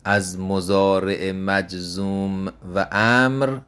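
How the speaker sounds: از مضارع مجزوم و امر said slowly, word by word; slow emphasis. Shown as a demonstration. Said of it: "slow emphatic repeat". (آهسته و با تأکید روی امر)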